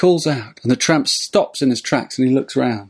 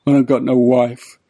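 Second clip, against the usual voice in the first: tramp lamenting. Retold or imitated. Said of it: "And the old tramp goes".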